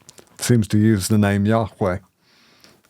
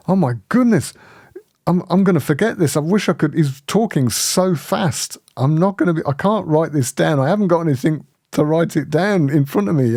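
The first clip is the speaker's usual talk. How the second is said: higher-pitched fretting, re-enacted; overwhelmed amazement; 5 semitones higher than usual. Speaker recalls thinking mid-sermon he can't write it down, overwhelmed. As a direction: worry aloud that it is all too much. Retold overwhelmed thoughts during the visit.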